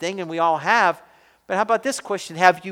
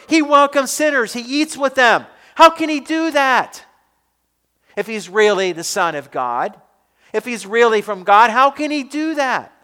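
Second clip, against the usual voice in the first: higher, louder scandalized protest; indignant grumbling; 4 semitones higher, 4 dB louder than usual. Retold or imitated. Pharisees grumbling about Jesus to each other, higher and louder outrage. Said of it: "they grumbled and they murmured".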